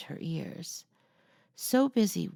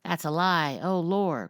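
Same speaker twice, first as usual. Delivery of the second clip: parrot crying out; 5 dB louder than usual. Acted. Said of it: "cried the parrot".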